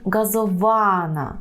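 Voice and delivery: газована with a long, stressed ва; penultimate stress. Shown as a demonstration. Teacher models Polish for learners, stress on ва in газована. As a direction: lean on ва in газована. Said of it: "що наголос".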